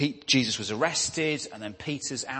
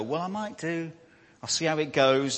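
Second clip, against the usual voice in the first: non-committal; 3 semitones higher, 3 dB louder than usual. Acted. Asked about Saturday's meeting, a non-committal reply. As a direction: act out a vague, dodging answer. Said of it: "we get a bit more non-committal".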